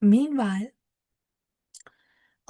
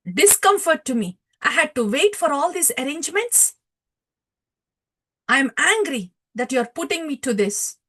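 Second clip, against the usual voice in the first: mildly angry retold complaint, higher pitched; raised-voice scolding, acted lightly; angry saint; 4 semitones higher, 3 dB louder than usual. Nityananda Ram scolds a devotee for the wait, angry. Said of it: "Nityananda Ram was angry".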